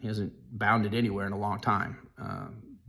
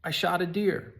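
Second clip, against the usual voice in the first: higher, louder flat denial; insistent denial; 9 semitones higher, 4 dB louder than usual. Retold or imitated. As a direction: shoot back a quick, sure denial. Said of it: "his immediate response back was".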